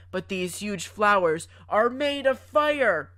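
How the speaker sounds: mild mock yell, loud and drawn out; half-hearted retold scream, stretched out. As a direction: imitate her sudden scream, slow and emphatic. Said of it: "she screams out".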